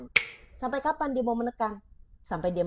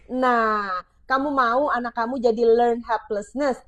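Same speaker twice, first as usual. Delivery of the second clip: ordinary talk, nothing marked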